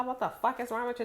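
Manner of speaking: high-pitched mock yelling; mock outburst. Hothead yelling at a partner, high mock anger. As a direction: rant like you've lost patience. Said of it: "da, da".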